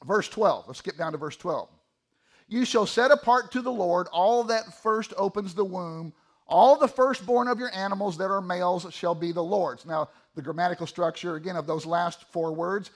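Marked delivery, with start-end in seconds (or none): 2.5-9.8 scripture reading. Acted. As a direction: read the verse out with deliberate weight.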